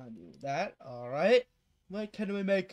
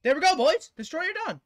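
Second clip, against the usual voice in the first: victory shout; 10 semitones higher, 8 dB louder than usual. Real, not acted. Victory cry after boss.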